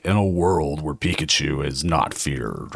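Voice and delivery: deep, slow movie trailer narrator; movie announcer voice. Shown as a demonstration. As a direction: intone it like an epic trailer. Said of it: "my movie announcer voice".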